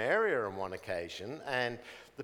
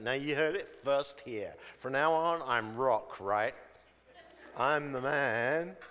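swaggering, chest-out brag; puffed-up boasting. Acted. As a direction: play a disciple puffed up with importance. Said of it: "Simon puffing his chest out".

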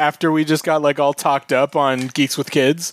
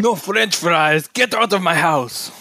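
mock diva. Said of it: "mocking her".

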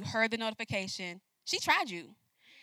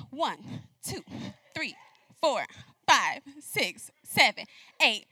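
counting with attitude; 5 dB louder, slower than usual. Retold or imitated. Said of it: "I'm giving attitude".

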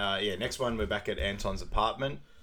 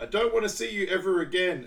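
higher, louder mock outburst; raised-voice quote of someone yelling; retold yell; 9 semitones higher, 5 dB louder than usual. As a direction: yell it in imitation of an angry outburst. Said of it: "then she yells out".

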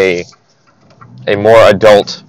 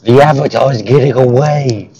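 higher-pitched bad Brooklyn accent; Prince Zuko, Brooklyn accent; 4 semitones higher than usual. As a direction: do an urgent cartoon prince in shoddy Brooklynese. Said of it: "kinda giving him a shitty Brooklyn accent".

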